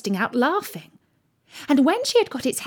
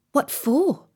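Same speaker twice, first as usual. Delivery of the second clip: raised, questioning pitch; curious question; 5 semitones higher than usual. A narrator's reading. Alice asks the Rabbit why, curious. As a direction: ask it simply in a higher voice.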